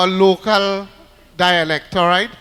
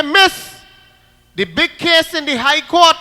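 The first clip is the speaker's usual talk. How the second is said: put-on little girl; 7 semitones higher, 7 dB louder than usual. Little girl answering teacher.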